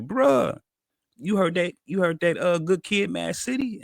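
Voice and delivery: imitating an eager friend, pitched high; high-pitched, urgent mock phone voice; excited retelling. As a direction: act out a buddy bursting with news. Friend's excited call being retold.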